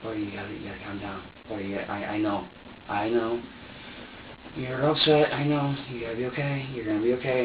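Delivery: calm him down gently; soothing the baby. Retold or imitated. Soothing crying baby in retelling.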